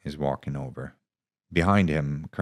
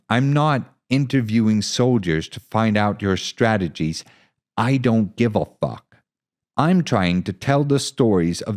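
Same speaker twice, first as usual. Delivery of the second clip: louder, higher, building conviction; impassioned plea; 5 semitones higher, 7 dB louder than usual. Acted. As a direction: fight for the story. Hansen's impassioned speech.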